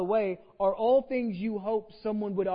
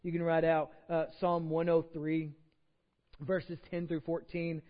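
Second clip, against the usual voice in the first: usual speaking voice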